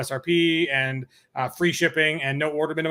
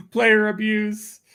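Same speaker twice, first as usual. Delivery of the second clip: laughing quip; 6 semitones higher, much slower than usual. Real, not acted. Joking about hitting players.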